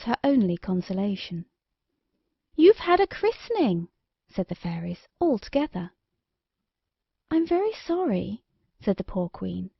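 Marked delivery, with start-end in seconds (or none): 2.5-3.9 fairies voice. A narrator's reading. Fairies accuse in chorus. 7.3-8.4 queen voice. A narrator's reading. Poor queen apologises.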